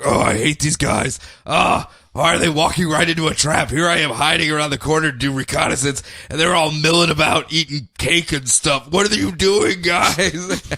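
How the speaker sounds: lightly voiced grumbling Batman; a hint of an annoyed coworker griping; grumpy Batman. Batman grumbles at the team from the corner, lightly voiced. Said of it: "just growling at his entire".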